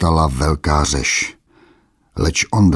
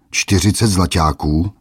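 "Čtyřicet" squealed louder, rising in scorn; mocking squeal; 3 semitones higher, 4 dB louder than usual. Brute mocks the old trader's price, squealing loud. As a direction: squeal the price back in mock disbelief. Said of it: "vypískl hromotluk".

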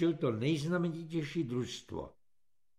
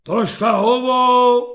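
sputtering; 7 semitones higher, 14 dB louder, slower than usual. A narrator's reading. Corporal sputtering.

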